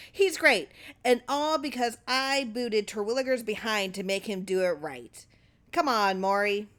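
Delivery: high, loud gloating boss; boastful excitement. Acted. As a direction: crow about your own genius. Clarence boasting, leaving room.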